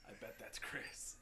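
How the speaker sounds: hushed reenacted aside; confiding whisper. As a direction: lean over and whisper it. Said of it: "I lean over to Kristen and I go".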